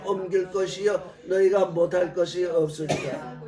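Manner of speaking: formal Bible reading voice; scripture reading. Acted. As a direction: read the verse out solemnly.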